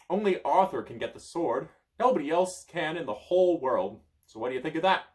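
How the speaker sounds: high, loud taunt; gloating wizard. Acted. Merlin taunting the child, high and loud. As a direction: rub it in.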